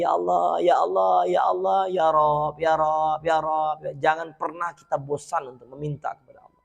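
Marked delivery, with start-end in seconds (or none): 0.0-3.8 soft, low repeated pleading; a hint of imploring supplication; pleading prayer. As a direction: beg God softly again and again. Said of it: "minta lagi".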